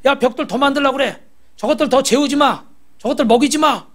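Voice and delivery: a touch of imperious anger; angry Pharaoh. Retold or imitated. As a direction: act out an angered king giving orders. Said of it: "바로 왕이 화가 나가지고".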